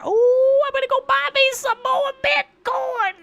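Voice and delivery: over-the-top hype-man shout. Pretend. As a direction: hype the chat like a crypto bro. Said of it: "with me doing this voice".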